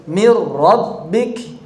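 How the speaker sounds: "Mir rabbik" slow, with a doubled heavy r and no nun; slow model reading of "Mir rabbik"; tajwid demo. Shown as a demonstration. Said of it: "mir rabbik tanpa nun".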